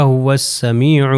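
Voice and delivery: هو السمیع as "huwas-samee'u", waw straight into seen; هو السمیع with a doubled s; silent alif and lam. Shown as a demonstration. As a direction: recite هو السمیع joined, with a held "ee". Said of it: "نہ الف پڑھا جا رہا ہے".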